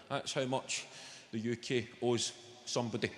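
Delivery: ordinary talk, nothing marked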